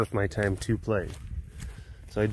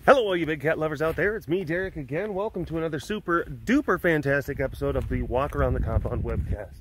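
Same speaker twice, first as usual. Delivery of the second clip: upbeat host welcome, quick start; webcast host intro; faster than usual. Acted. Derek opens his webcast to big cat lovers, upbeat host voice. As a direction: greet the viewers like a show host.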